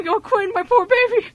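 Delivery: high, slow mock coo over a favourite; hammed-up doting. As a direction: coo it like a fussing mother. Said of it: "now I wanna say".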